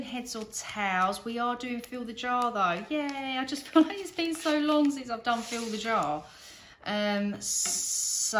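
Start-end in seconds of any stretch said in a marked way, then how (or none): 2.9-6.2 excited. Real, not acted. Excited about favourite challenge.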